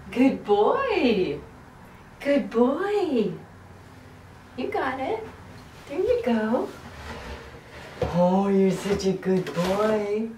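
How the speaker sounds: sing-song praise for a pet; talking to a dog. Real, not acted. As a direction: coo at the dog. Praising dog Edwin in bath.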